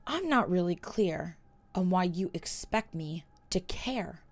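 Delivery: soft, fading to a whisper; cold, can't be bothered; indifferent. Acted. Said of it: "an indifferent expression".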